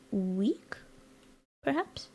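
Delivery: breathy whispered "weak"; whispered jab. Pretend. Streamer teasing Vegemite haters, whispered. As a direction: whisper the insult.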